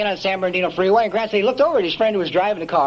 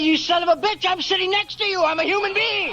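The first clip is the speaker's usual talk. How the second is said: retelling an outburst in a much higher voice; mock outrage; 11 semitones higher than usual. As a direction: squeak it out like an outraged friend. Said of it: "I looked over and said".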